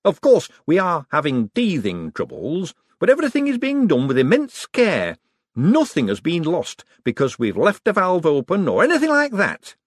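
high, eager nervous inventor; nervous economist boasting to visitors, high and eager; excitable Hubert. Acted. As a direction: gush about the machine, pitched high. Hubert rambling.

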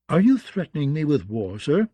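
cool question lifting on the last word; untroubled, politely challenging; unafraid. Acted. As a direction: ask it without a trace of fear. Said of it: "did not sound the least afraid".

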